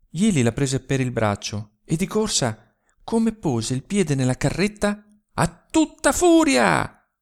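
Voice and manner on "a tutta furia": high, loud, drawn-out shout; shouted command. Acted. Jeli shouting to drive the cart at full speed. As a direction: yell to the horse to go full speed. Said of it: "gridò".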